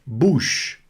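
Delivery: "Bouche" ending on a drawn sh; silent final E. Shown as a demonstration. Teacher modelling for students, "Bouche" with silent E. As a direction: let "Bouche" finish on sh, no vowel after it. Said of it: "Não pronuncia o E no final".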